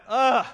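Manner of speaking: a weary, exasperated groan; fed-up ugh. Real, not acted. Pastor voicing weariness at a divided world, exasperated groan. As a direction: let out a tired ugh of disgust. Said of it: "I'm so tired of it".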